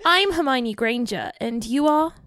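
lightly British schoolgirl introduction; Hermione Granger. Acted. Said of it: "I'm not good with Hermione Granger".

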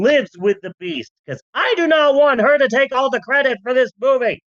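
bossy executive voice. Retold or imitated. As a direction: bark orders like a studio boss. Boss voiced giving orders.

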